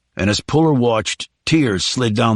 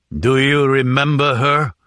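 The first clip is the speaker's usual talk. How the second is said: tight, held-back question; strained voice; 2 semitones higher than usual. A narrator's reading. Mecco showing the photo to his prisoner, voice strained. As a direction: push it out through a tight throat. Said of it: "his voice strained".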